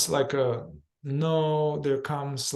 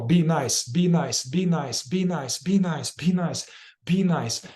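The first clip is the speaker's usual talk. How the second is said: quick, insistent, evenly repeated command; rapid fire; slower than usual. Shown as a demonstration. Facilitator firing the inner command into the contraction, rapid-fire. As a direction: fire it off over and over. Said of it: "I kind of rapid fire this".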